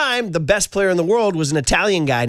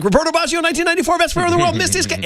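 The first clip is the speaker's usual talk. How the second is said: much higher, pointed comeback; emphatic retort; 12 semitones higher, faster than usual. Retold or imitated. Dad telling son Rory about Baggio, much higher emphatic retort. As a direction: hit each fact higher to win the argument. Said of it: "I'm like".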